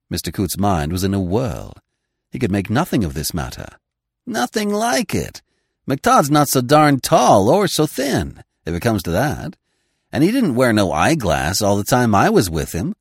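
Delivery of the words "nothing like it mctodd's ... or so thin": excited. Acted. Coots puzzled outburst.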